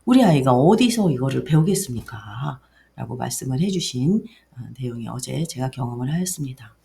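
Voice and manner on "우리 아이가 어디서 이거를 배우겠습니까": louder, emphatic rhetorical question; lightly voiced impressed father; retold father's marvel. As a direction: retell a dad's amazement, pushing the volume. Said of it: "아버님께서 말씀하시기를".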